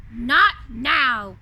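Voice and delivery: low, loud gruff refusal; growled. Acted. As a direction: growl it out, annoyed. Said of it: "growled the beast".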